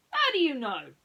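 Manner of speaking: high, loud astonished question; Basil stunned by Dawson; gasped surprise. Acted. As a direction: gasp it out amazed. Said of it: "he gasped".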